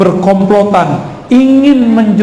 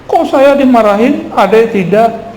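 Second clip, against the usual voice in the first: higher-pitched protest, slowing at the end; jealous complaint; 5 semitones higher than usual. Acted. Older brother scolded while sibling isn't, jealous complaint. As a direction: play a jealous child's mock grievance.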